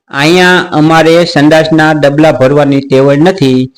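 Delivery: slow, over-deliberate mock politeness; mock calm. Shown as a demonstration. Uncle mocking the agent's plea for calm, slow and deliberate. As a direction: drag each word out with exaggerated patience. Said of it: "હાલો હવે નિરાયતથી વાત કરું છું".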